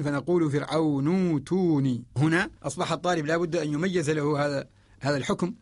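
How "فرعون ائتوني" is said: فرعون ائتوني with a drawn-out oo after the noon; hamza as long vowel. Shown as a demonstration. Teacher showing the substitution, فرعون ائتوني with a long oo for hamza. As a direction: stretch نو into توني, no glottal stop. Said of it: "نبدلها حرف مد مجانس لضمة النون".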